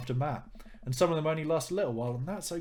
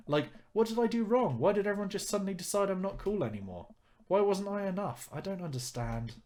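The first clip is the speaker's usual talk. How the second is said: put-on lightly raised teen girl voice, wounded and pleading; hurt teen daughter; 8 semitones higher than usual. Daughter confiding in dad, hurt and bewildered. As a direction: ask why, hurt and confused, a touch higher.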